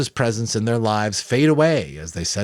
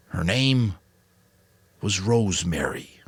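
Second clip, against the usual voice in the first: quietly happy; slower than usual. A narrator's reading. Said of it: "look truly happy".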